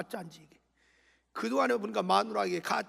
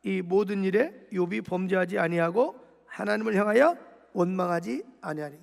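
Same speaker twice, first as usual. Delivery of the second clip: loud unison reading; 7 dB louder than usual. Shown as a demonstration. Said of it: "시작".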